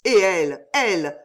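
breathless, fighting for air; panting. A narrator's reading. Armand begging the doctor about Jeanne, panting. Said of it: "haleta Armand".

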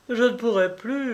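sobbing climb. A narrator's reading. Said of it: "en sanglotant".

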